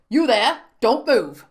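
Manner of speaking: loud barked order; shouted command. A narrator's reading. Guard commands the father to freeze, shouted. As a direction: shout them down.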